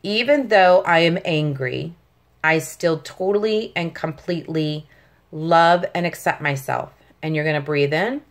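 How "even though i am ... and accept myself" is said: calm affirmation. Shown as a demonstration. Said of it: "say this statement that I'm gonna say three times".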